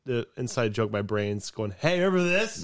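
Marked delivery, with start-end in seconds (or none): 1.8-2.6 high excited voice. Pretend. Brain voice, quoted thought.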